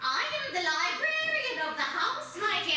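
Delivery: lightly spooky, low librarian; creepy librarian. Acted. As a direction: purr it like a sinister host. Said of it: "talk to me in a typical voice".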